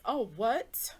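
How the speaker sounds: building from lively to loud and high, slowing at the end; rising glee at being free of him; gleeful freedom. Retold or imitated. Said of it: "You know, you realize".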